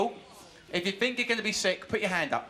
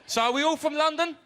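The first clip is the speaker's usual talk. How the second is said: higher, louder call to the crowd; 7 semitones higher, 3 dB louder than usual. Real, not acted. Warm-up man polling the studio crowd, loud high call. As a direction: project it to the back rows.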